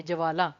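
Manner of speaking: ज्वाला spoken as ज-अ-वाला, low and deliberate; careful ज्वाला. Shown as a demonstration. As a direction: lay out ज्वाला syllable by syllable. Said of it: "ज के साथ अ का स्वर है". (ज्वाला, ज और अ अलग-अलग)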